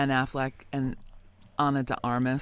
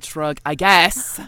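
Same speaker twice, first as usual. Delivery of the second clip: shrug; 6 dB louder, much slower than usual. Retold or imitated. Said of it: "Eight percent said".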